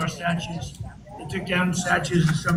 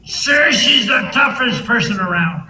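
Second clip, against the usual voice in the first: emphatic insistence; 7 dB louder, slower than usual. Retold or imitated. Retold Homan reply.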